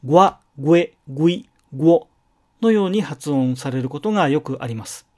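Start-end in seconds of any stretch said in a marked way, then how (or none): 0.0-2.1 ぐえ、ぐい、ぐお said with a clear g before the vowel; added g sound. Shown as a demonstration. Teacher demonstrating the g onset on ぐえ、ぐい、ぐお. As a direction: add a light g to start ぐえ、ぐい、ぐお. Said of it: "ぐという音が最初につき".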